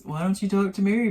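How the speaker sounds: Why don't you talk to Mary with a rising taunt; mocking. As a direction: parrot him to ridicule him. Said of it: "making fun of Cody".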